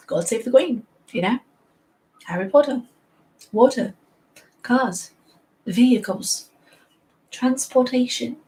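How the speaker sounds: put-on playful British accent, word by word; lightly hammed-up British English. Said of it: "Everything that sounds British".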